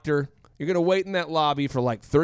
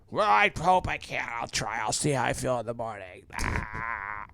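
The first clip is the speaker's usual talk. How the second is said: lower, much softer, martyr-like weakness; feeble sick employee; 5 semitones lower, 5 dB quieter than usual. Retold or imitated. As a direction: sound like the effort is too much. Sick man answering boss.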